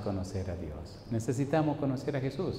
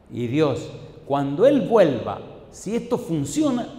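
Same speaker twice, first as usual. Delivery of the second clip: raised, louder retelling of a challenge; emphatic retold vow; 5 semitones higher, 5 dB louder than usual. Preacher voices a man bargaining with God, emphatic vow. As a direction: build the vow higher, stretching key words.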